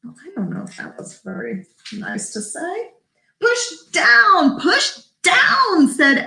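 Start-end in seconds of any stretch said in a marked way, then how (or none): 3.4-5.9 high-pitched, insistent command; urgent urging. A narrator's reading. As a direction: push the pitch way up and urge them. Elephant urging the animals on.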